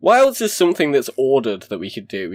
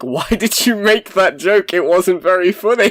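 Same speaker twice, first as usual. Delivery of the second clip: mock snooty critic; 6 semitones higher than usual. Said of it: "I said, like".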